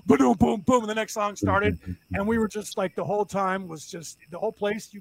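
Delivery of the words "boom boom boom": punchy vocal drum hits; imitated drums. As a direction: boom out a drum fill. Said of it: "they started the drums".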